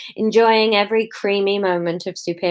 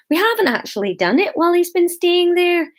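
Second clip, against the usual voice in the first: high, lilting Scottish protest; mild Scottish accent; 10 semitones higher, 3 dB louder than usual. A narrator's reading. Hamish defending himself to the meeting, mild Scottish accent. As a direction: offer it mildly in a Scottish lilt. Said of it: "said Hamish mildly".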